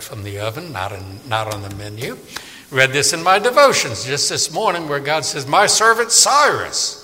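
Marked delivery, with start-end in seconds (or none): 5.5-7.0 "My servant Cyrus" slow and higher, solemn; preacher voicing God, slow and proclaiming. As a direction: speak as God naming his servant.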